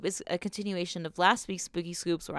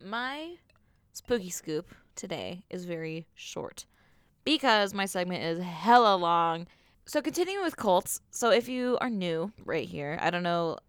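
tipsy. Real, not acted. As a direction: talk like you've had a few. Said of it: "I'm getting drunker every word I say".

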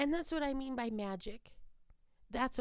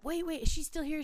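higher, hurried-sounding mock urgency; urgent retold call; 6 semitones higher, faster than usual. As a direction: act out catching someone before they leave. Acting out owner running back up.

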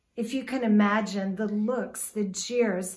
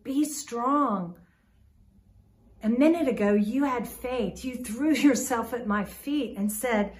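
firm, urging, a touch louder; exhorting; 3 dB louder than usual. Retold or imitated. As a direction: push him to stand strong in faith. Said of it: "he's actually really exhorting".

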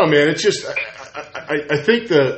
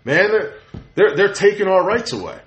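higher-pitched indignant follower; worked up, in a raised imitating voice; mock indignation; 5 semitones higher than usual. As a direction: imitate a riled-up believer. Voices followers alarmed by rumor.

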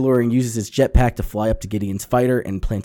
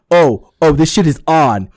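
excited retold quote; 3 semitones higher, 6 dB louder than usual. Stormtroopers voiced excited.

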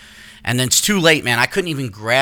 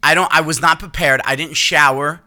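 flustered; 3 semitones higher, 3 dB louder than usual. Retold or imitated. Flustered retelling, rising voice.

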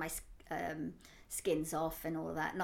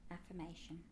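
normal talking voice

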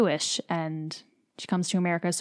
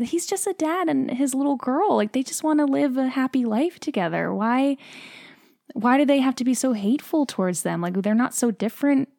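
real emotion; 5 semitones higher than usual. Real, not acted. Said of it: "it makes me emotional now".

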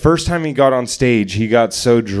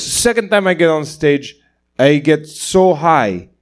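imitating a Nepali comic, slow thick accent; drawn-out Nepali-accented retelling; 3 semitones higher, slower than usual. Nepali comic's second line on stage, thick accent. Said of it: "this really thick accent".

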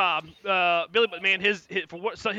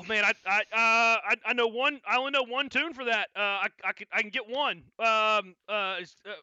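a touch higher, stammering; flustered bard; 5 semitones higher than usual. Acted. Bard answering Ugluk, lightly voiced and stammering. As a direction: hesitate nervously.

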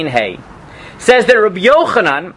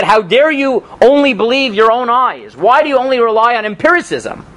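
higher-pitched retold rebuke; mock indignation; 5 semitones higher than usual. A sage scolds the student for trusting his eyes, mock indignation. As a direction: scold like an offended sage, without shouting. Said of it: "Rabbi Yochanan got so angry at him".

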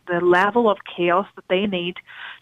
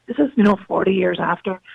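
voice giving out. Real, not acted. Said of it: "I'm losing my voice".

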